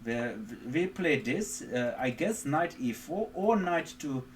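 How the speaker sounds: lightly put-on German accent in broken English; mock German accent. Streamer obliging chat's request for a German accent, lightly mock German accent. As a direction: hams up a German accent as a joke, only lightly. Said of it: "But I can speak in German accent".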